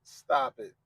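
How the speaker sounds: exasperated stop. Retold or imitated. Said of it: "I'm just like".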